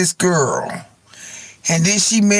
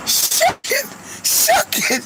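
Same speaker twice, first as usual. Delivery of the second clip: very high laughing squeal; squealed through laughter; slower than usual. Retold or imitated. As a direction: squeak it out cracking up. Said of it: "He said".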